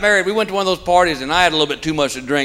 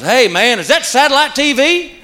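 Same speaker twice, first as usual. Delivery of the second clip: higher, put-on voice of the clueless neighbor; dumb neighbor voice; 7 semitones higher than usual. Neighbor gawking at the new dish, put-on dopey voice. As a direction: play the neighbor asking the obvious.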